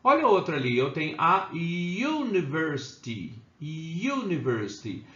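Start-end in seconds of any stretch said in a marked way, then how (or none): 1.2-5.1 slow "university", leaning on the opening y-glide; U as "you". Shown as a demonstration. Teacher showing why "university" takes A, its U drawn out as "yoo". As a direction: begin "university" with a long, stretched "yoo". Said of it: "Quando eu tenho U com som de U".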